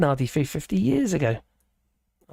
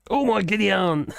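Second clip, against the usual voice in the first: laughing; 3 semitones higher than usual. Real, not acted. Laughing exclamation at chat comment.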